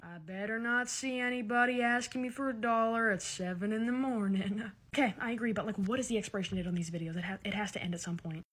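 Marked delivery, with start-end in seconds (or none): 0.0-4.7 put-on dominant tone, kept quiet; mock threatening. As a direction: imitate the self-important warning. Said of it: "threatening and dominant after saying that".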